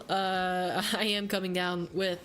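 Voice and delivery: hoarse, stuffy voice from a head cold; froggy cold voice. Real, not acted. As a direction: talk through a head cold. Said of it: "She said I sounded like a frog".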